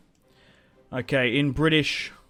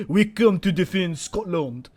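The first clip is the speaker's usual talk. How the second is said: mock soldier voice; 3 semitones higher than usual. Voices allied troops arriving.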